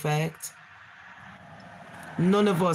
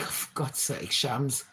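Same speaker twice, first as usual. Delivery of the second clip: exasperated. Retold or imitated. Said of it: "the police would be like".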